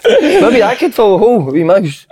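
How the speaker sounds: slow, giggling joke; laughing. Real, not acted. Joking with laughter.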